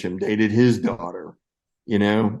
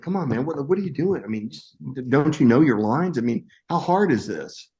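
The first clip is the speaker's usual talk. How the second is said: exasperated director, pitched up at the start; mild mock yelling; 4 semitones higher than usual. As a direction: imitate a director scolding without really shouting. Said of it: "he's kinda yelling at me a little bit".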